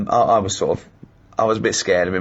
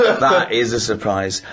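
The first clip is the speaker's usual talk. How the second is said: slower, chuckling through the words; laughing repeat; slower than usual. Retold or imitated. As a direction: savour the joke while laughing. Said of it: "I went".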